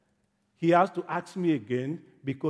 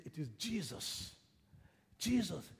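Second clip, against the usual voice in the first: hushed answer; 13 dB quieter than usual. Acted. Neighbour answering the blind man, hushed answer. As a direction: tell it quietly to one person.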